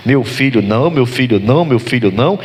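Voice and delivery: imitating an agitated father, repeating insistently; mildly acted anxious protest, rhythmic repeats; nervous refusal. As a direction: refuse over and over as the worried father. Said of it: "Jacó fica nervoso".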